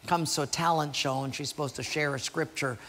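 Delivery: ordinary talk, nothing marked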